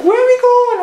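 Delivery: high, loud cartoon voice of the van; voiced van. Van asking its owner where they are driving, high squeak. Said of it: "she's like".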